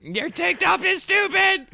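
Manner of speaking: high slow mock-crying wail; crying insult. Crying giant insulting a tank top, high mock-crying wail. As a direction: whine it like you're in tears. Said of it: "while crying".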